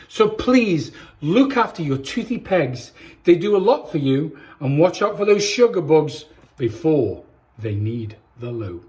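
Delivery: put-on lively storybook reading for kids; reading to children. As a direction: read it like bedtime story time for little ones. Reads picture book to children.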